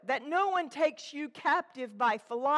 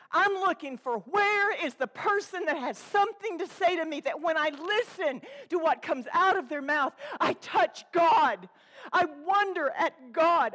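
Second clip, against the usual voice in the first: fervent preaching; 4 semitones higher, 4 dB louder than usual. Real, not acted.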